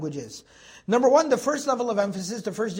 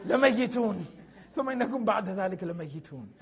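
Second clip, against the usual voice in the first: laughing; much faster than usual. Real, not acted. Joking verse as mom's deadly look.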